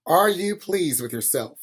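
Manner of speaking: slow, whispered and tart; whispered reproach. Acted. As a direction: hiss it at him under the breath. Midwife's tart question.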